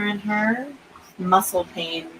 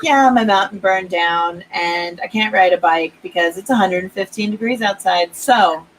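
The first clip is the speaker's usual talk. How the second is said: sarcastic; 3 dB louder than usual. Retold or imitated. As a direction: rub it in with fake cheer. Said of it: "I was like".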